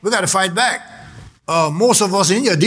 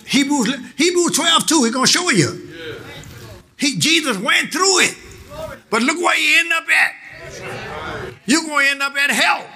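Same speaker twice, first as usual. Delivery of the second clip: higher-pitched, insistent sermon delivery; emphatic preaching; 5 semitones higher than usual. Real, not acted. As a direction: preach it out to the congregation. Preaches to congregation.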